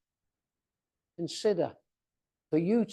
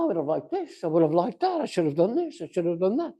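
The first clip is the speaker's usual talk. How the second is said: lilting list of regrets, each rising at the end; imagined regretful musing; faster than usual. Acted. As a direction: muse through imagined regrets in a sing-song list. Voicing future regrets in a list.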